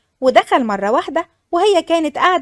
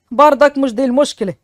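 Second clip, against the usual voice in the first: put-on a lower man's voice for the old father; father's voice; 5 semitones lower than usual. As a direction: speak as a serious village father. Father explains the bad news. (صوت الأب الجاد بنبرة أخفض)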